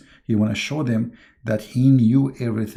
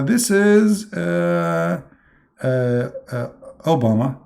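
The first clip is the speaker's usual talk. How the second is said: higher, unsure mock voice of Adam; Adam guessing; 5 semitones higher, much slower than usual. Adam fumbling a quiz answer before God, lightly voiced. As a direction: fumble for the answer like a lost student.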